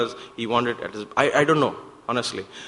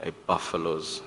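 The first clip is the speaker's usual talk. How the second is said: Swami's call; 8 semitones lower, 8 dB quieter than usual. Retold or imitated. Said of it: "Swami used to always call us".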